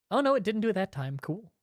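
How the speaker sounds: talking while crunching food. Real, not acted. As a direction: mouth full of crunchy snack. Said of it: "I'm crunching up so much".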